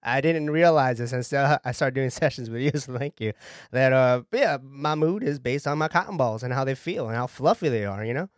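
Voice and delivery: easygoing Southern client; relaxed Southern talk; Southern accent. Acted. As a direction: chat modestly in a Southern accent. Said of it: "you're from the South".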